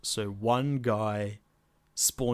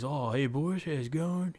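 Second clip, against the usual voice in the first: broad Australian bloke, pitched up; Bogan accent; 8 semitones higher than usual. Acted. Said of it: "We became full on Bogans".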